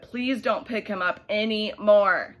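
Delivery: dad fed up, pleading loudly; exasperated dad. Acted.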